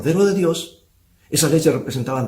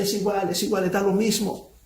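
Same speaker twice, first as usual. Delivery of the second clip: put-on Italian accent; 7 semitones higher than usual. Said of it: "mezclando el español con el italiano".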